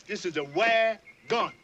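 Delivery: slow teaching demo. Shown as a demonstration. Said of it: "You say wagon".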